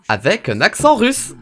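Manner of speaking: hammed-up Russian accent, drawn out. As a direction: put on a Russian accent with emphasis.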